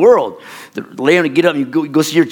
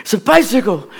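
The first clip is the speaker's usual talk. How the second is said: put-on sobbing child begging for a bicycle; retold crying; 8 semitones higher than usual. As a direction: whine it like a heartbroken boy. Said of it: "I cried".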